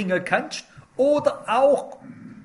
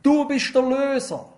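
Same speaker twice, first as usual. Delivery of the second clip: pleading cry; 4 semitones higher than usual. Retold or imitated. Naemi calling out to Boas for rescue, mild raised plea. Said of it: "schreit sie".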